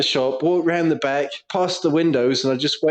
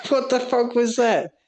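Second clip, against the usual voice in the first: laughing startled quote; 8 semitones higher than usual. Retold or imitated. Customer startled, laughing retelling.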